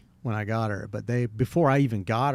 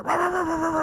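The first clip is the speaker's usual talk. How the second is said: barking imitation. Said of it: "she's got this deep voice".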